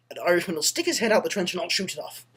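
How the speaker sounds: lightly voiced stage German; bad German accent. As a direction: finish the plan in mock German. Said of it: "this accent's terrible".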